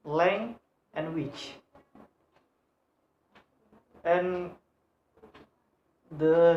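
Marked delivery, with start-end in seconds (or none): 0.0-1.5 "lang and which" slowly, one syllable at a time; slow syllable-by-syllable count of "lang and which"; split into syllables. Shown as a demonstration. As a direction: break the word into "lang" and "which". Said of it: "This word have two syllable".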